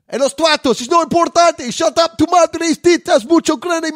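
very high, loud fake Spanish accent; mock Spanish. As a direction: shriek it in hammed-up Spanish. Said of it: "he only speaks Spanish".

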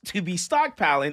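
loud, theatrical stress on "stockpiling"; all-caps emphasis. Acted. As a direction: hammer "stockpiling" as if in capitals. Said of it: "in all caps".

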